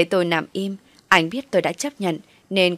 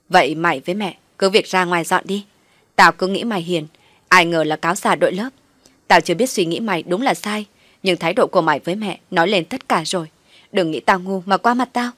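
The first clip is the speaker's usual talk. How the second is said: angry scolding; 4 dB louder than usual. Acted. Sister scolds Thoa after slapping.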